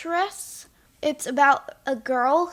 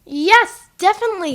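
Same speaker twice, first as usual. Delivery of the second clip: loud, higher oracle pronouncement; mock oracle answer; 5 semitones higher, 7 dB louder than usual. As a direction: announce the answer like the magic ball. Playing the eight ball's answer.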